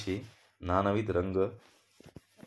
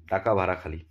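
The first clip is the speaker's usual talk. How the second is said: guard's order; 5 dB louder, faster than usual. Acted.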